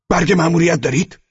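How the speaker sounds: high, loud interrogating officer. A narrator's reading. SS officer demanding the boys' mission papers.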